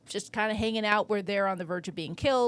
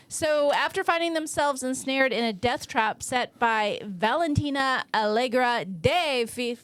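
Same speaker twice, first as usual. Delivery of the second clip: measured movie-trailer style read; synopsis read; 2 semitones higher than usual. Acted. Host reads the film synopsis to co-host, as a dramatic blurb.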